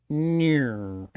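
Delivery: long mock-Australian "No", like "naur"; Australian accent. Australian repeating after the teacher, exaggerated Australian accent. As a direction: bend "No" into a broad Australian vowel. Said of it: "Australian person would go".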